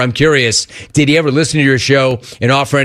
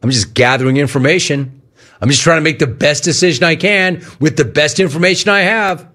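earnest; 3 semitones higher than usual. Retold or imitated. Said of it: "in all earnestness".

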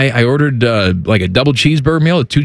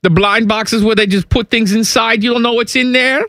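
put-on German accent.

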